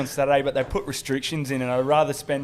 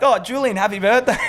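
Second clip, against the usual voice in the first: higher-pitched mock birthday greeting; imitated greeting from cops; 7 semitones higher, 4 dB louder than usual. Cops recognising the troublemaker, mock friendly greeting. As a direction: greet him like a familiar regular, pitched up. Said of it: "cops came up and then were like".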